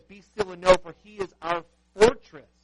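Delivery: high, ringing proclamation of the verse; proclaimed Bible verse; loud scripture quote. Acted.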